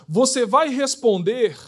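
ordinary talk, nothing marked

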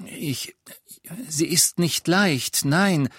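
höher, langsam und gepresst; Harry, gequält. Acted. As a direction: sich gegen Zweifel stemmen. Harry answering Aberforth. (junger Held unter Druck)

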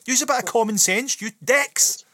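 a burst of fed-up shouting; ranty outburst. Real, not acted. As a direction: vent at them, loud and fed up.

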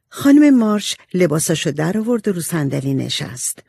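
usual speaking voice

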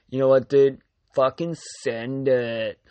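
lightly voiced party bro, slow; a hint of a hyped-up bro; frat bro. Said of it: "he's like".

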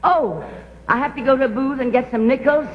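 gushing, theatrical society-lady voice; posh grande dame. Acted. Society actress chattering to cafeteria staff, posh and gushing. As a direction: play a grand actress slumming it, all airs.

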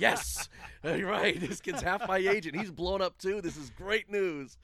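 slow, laughing through the words; gleeful relief. Retold or imitated. Wrestler laughing to himself about a winded opponent. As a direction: savour the good news with a chuckle. Retold gleeful inner thought.

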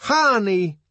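loud high shout. A narrator's reading. The Savage shouting from his room, loud high shout. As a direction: bellow it from a locked room. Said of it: "to shout".

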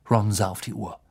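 plain reading voice

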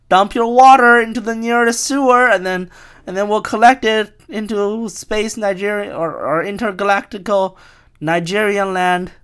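high, loud hammed-up proclamation; mock conspiracy rant. Con artist ordering water dumped for collection, loud mock rant. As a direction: keep the alarmist shout going, pitched high.

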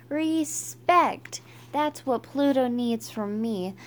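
half-sung chant, starting at full voice; mock belted song. A narrator's reading. Stink sings out for Pluto at recess, mock top-of-lungs belting. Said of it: "Stink sang at the top of his lungs".

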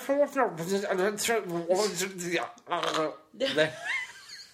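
garbled sounds played in reverse; backwards speech. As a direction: mimic speech running backwards. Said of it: "That was me speaking backwards".

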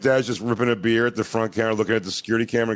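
usual speaking voice

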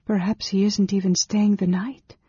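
mild, high-pitched despair. A narrator's reading. Woman at the doorframe loses hope of finding him, despairing. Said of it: "sagging against the doorframe in despair".

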